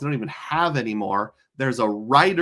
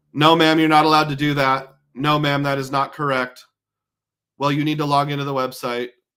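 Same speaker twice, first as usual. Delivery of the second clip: flat, robotic monotone voice; 4 dB louder than usual. Speaker imitates a coworker who talked like a robot, talking like a robot. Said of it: "a specific guy who talked like a robot".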